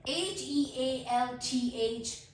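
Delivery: slow letter-by-letter spelling. Shown as a demonstration. Teacher spelling a word for learners, slow spelling. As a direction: spell it out, a small gap after each letter. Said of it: "letter spell करती हूँ".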